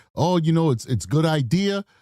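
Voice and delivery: ordinary talk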